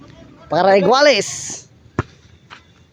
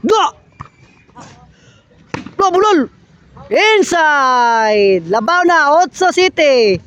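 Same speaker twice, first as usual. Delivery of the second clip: live play-by-play; 5 semitones higher than usual. Acted. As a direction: call the rally as it happens.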